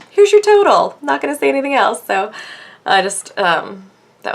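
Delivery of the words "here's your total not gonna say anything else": curt saleswoman. Retold or imitated. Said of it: "She just".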